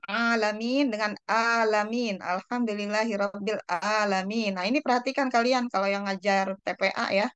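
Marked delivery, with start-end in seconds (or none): 0.1-0.9 ALAMIN opened with a tight throaty Arabic 'ain, long first A; 'ain pronunciation. Shown as a demonstration. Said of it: "tapi alamin itu beda arti ya". 2.2-4.6 ALAMIN wrongly begun with a plain glottal A instead of 'ain; mispronounced recitation. Shown as a demonstration. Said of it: "Jangan sampai alamin ya".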